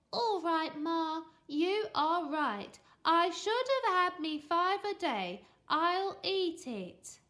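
laboured, insincere agreement; fake compliance. A narrator's reading. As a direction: pretend to give in sweetly. Boy feigns agreement to trick mum.

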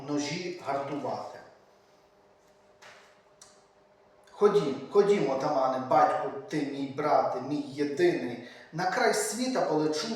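rhythmic, solemn recital of a poem; poem reading. A narrator's reading. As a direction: declaim the verse like a kobzar telling of old wars. Reads Shevchenko's poem aloud. (урочисте читання поеми)

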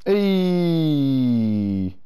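loud sharp call. Real, not acted. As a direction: shout to get attention. Calling out suddenly.

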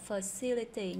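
"facility" stressed on CIL; second-syllable stress. Shown as a demonstration. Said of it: "nhấn âm thứ hai". (nhấn âm thứ hai trong "facility")

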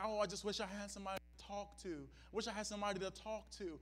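fast, soft, mocking lament; mock wistful complainer. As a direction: rattle off a whiny wish under the breath. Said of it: "some of you desire".

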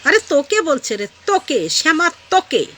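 high, emphatic rebuke; exasperated scolding. Real, not acted. Vlogger tells the woman it means her, exasperated scolding.

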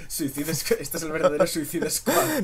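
big slow mock announcement; loud announcement. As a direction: proclaim it loudly, drawn out. Announcing the suicide squad.

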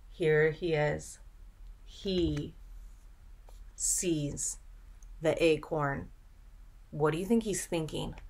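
soft and secretive, half whispered; hushed voice. Acted. Teacher hushing children over the picture, secretive. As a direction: draw them in quietly.

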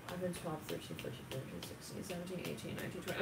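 soft, half-whispered count; quiet counting. Real, not acted. Reader listing ages, almost whispered. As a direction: count under the breath.

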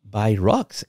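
soft, slow retold plea; quiet halting plea, mildly tearful; tearful pleading. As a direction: lightly imitate a crying child begging. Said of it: "and I start crying".

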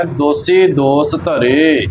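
slow "ਦੋਸੀ ਦੋਸ ਧਰੇ" with plain s sounds; without bindi. Shown as a demonstration. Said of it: "ਬਿਨਾਂ ਬਿੰਦੀ ਤੋਂ ਹੀ ਇਸ ਦਾ ਉਚਾਰਨ". ("ਦੋਸੀ ਦੋਸ" ਬਿਨਾਂ ਬਿੰਦੀ)

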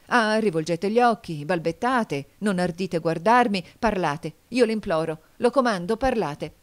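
high, loud, pressing questions; urgent demand. Acted. Fillide pleading then ordering Nicò to speak, loud and urgent.

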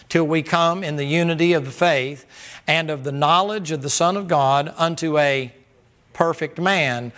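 loud, forceful scripture reading; preaching scripture. Acted. Preacher reading Ephesians aloud to the church, forceful. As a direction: proclaim the verses to the congregation.

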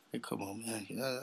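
ordinary talk, nothing marked

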